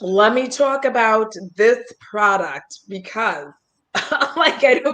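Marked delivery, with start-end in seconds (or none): 0.0-3.5 slow, carefully paced product intro; trying to sound sober. Shown as a demonstration. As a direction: drag it out as if drunk but trying to sound sober. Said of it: "like I'm super drunk and trying to sound sober".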